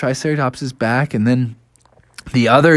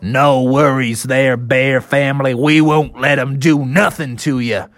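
reassuring cowboy triceratops. Acted. Buckaroo promising to protect bears, reassuring.

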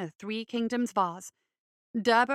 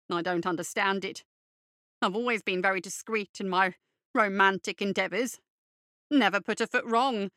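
fretful fop voice. Acted. Derber character voice.

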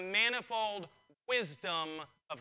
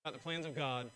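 lower, softer restrained voice; talking quiet; 6 semitones lower, 5 dB quieter than usual. Real, not acted. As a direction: hold the excitement down, speak quietly. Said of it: "me talking quiet right now".

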